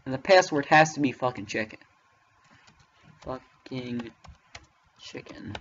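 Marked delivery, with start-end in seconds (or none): 3.2-5.5 much softer, half-voiced aside; whispered under breath. Real, not acted. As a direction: drop to a whisper on chicken. Muttering a guessed password.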